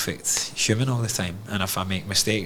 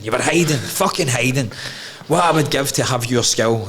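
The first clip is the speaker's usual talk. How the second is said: mock dad tirade; 3 semitones higher, 3 dB louder than usual. Dad berating son after game.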